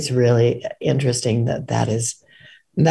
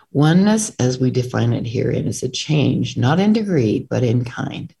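book reading. A narrator's reading. Reads passage from own book.

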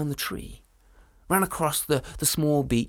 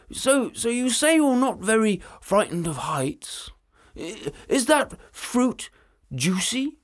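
dragon voice; 5 semitones higher, 4 dB louder, slower than usual. Acted. Dragon voiced, slow sly question.

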